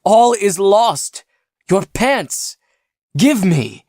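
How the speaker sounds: injured man wailing for the pants; despairing wail. Acted. Despairing demands.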